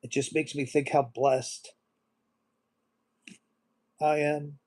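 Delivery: hushed, broken by long silences; choked up, trying to calm down while apologizing; really emotional. Real, not acted. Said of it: "I get really emotional".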